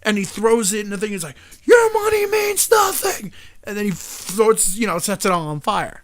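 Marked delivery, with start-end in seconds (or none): 1.6-3.3 high, slow, loud declaration; villain shout. Retold or imitated. Robber burning the bank's money, slow high shout. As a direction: roar it like a movie villain.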